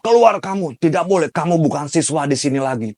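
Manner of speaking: high, loud yell from afar; teacher yelling him out of class; retold shout. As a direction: bellow at him to get out. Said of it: "dari jauh dia teriak".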